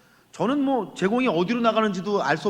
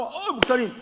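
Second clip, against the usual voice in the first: excited boast; 3 semitones higher, 6 dB louder than usual. Retold or imitated. Church elder excitedly telling the pastor about new members. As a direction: mimic a thrilled church elder bragging. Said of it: "막 이러면서 막 신이 나가지고".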